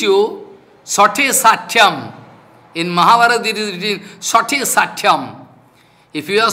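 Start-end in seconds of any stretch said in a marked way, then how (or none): 0.8-2.1 slow scripture quote. Acted. 4.2-5.5 slow scripture quote. Acted. Repeats scripture slowly.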